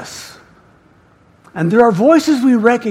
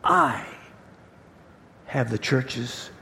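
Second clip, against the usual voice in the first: Jesus; 7 semitones lower, 9 dB quieter than usual. Acted. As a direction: end in a quiet, weighty promise. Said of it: "this is Jesus".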